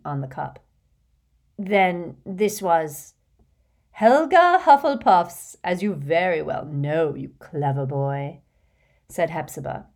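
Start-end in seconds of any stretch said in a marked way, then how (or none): 1.6-3.1 drawn-out, slow, careful voice; slow, guarded Voldemort; slow wondering young man. Acted. 3.9-8.4 put-on fussy, gushing rich old lady, laughing in; a vain old witch showing off to a charming boy; giggly hostess voice. Hepzibah flattering Tom.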